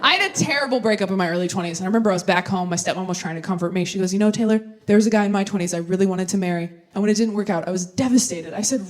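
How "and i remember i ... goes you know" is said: usual speaking voice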